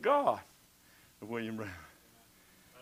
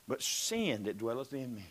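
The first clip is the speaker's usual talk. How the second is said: hushed; 6 semitones lower, 7 dB quieter than usual. Acted. Preacher sinks to a hush.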